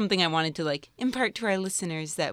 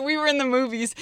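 put-on British accent; 6 semitones higher, 4 dB louder than usual. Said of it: "doing our English accent or British".

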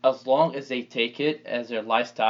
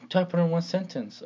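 professor voice; 6 semitones higher than usual. Retold or imitated. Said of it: "You sound like a professor right now".

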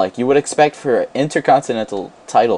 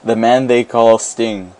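dramatic announcer; slower than usual. Pretend. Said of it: "say before everybody's name".

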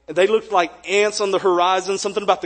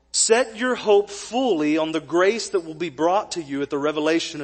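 scripture reading. Acted. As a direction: read the verses with gravity. Reads scripture aloud.

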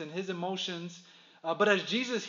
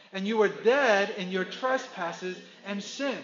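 enthusiastic group reading; 5 dB louder than usual. Acted. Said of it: "let's read it with great Easter enthusiasm".

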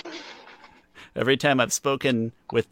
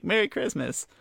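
sing-song greeting; 10 semitones higher than usual. Pretend.

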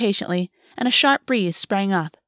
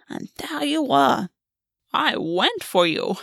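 playful fey queen. Acted. Gulvey reminiscing playfully.

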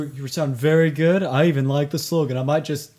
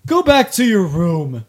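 mock scolding; 3 semitones higher, 5 dB louder, slower than usual. Sends heckler away like parent.

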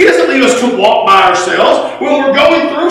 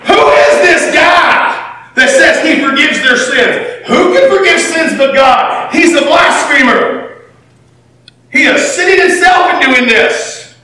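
angry Pharisees; 4 semitones higher than usual. Acted. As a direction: shout it like an outraged teacher of the law. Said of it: "They're mad".

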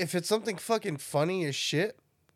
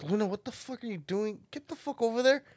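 rising, higher-pitched telling-off; retold scolding; 5 semitones higher than usual. Owner retelling telling off Luna the dog, mock scolding. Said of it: "I get mad at them".

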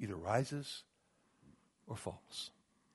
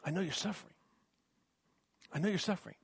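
tender Peter; 5 semitones higher, faster than usual. Acted. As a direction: comfort the hurting flock gently. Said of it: "Peter says".

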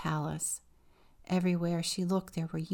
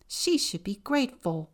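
mild bellow; 2 semitones higher, 5 dB louder than usual. Acted. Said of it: "her mother bellowed".

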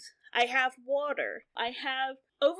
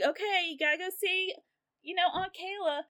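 coaxing parent; 5 semitones higher than usual. Acted. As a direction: gently talk the kids into a visit. Voices parent coaxing the kids.

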